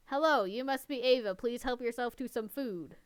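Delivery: flat, mechanical robot read. Acted. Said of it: "It sounds like a robot".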